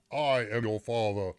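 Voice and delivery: lightly voiced dark lord quote; Darth Vader. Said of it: "He apparently just says".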